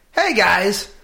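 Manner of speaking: high, loud, laughing through the words; laughing mock pep talk. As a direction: cheer them up while cracking up. Mock pep talk to crying team.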